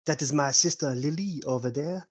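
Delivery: lightly put-on French accent. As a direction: play an obliging mock-French host. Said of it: "I knew he was putting on a voice".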